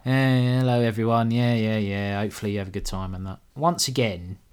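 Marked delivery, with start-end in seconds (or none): 0.1-3.1 a hint of a flat, fading PA announcer; bored tannoy announcer. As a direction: mumble it like a bored festival MC. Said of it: "the people on the announce, like, the tannoys".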